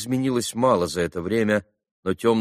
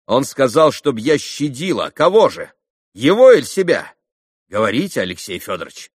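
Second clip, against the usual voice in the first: higher, louder indignant questioning; agitated demand; 6 semitones higher, 7 dB louder than usual. Acted. Katerina pressing Alyosha about the message, agitated demand. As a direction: hurl the questions in bitter agitation.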